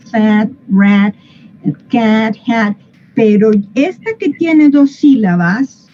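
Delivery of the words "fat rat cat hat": "Fat, rat, cat, hat" each with wide English æ; mafioso vowel. Shown as a demonstration. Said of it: "Se tuerce para un lado. No hay opción".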